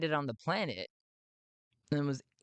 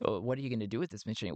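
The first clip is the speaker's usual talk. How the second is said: put-on low-pitched, quick unaccented question; fast, lightly voiced visitor's question; 4 semitones lower, much faster than usual. Visitor's question before accented character echoes it.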